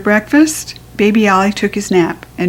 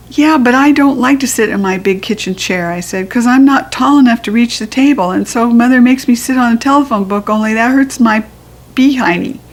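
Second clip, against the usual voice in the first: put-on little girl voice; 3 semitones higher than usual. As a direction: explain like a fussy little girl. Junie B quote.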